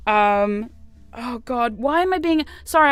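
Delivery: trying not to laugh; laughter breaking through the apology; stifled giggles. Real, not acted. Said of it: "I'm trying not to laugh".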